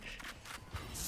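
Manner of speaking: breathy unvoiced villain cackle; whispered evil chuckle; villain laugh. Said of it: "You don't like my villain laugh?".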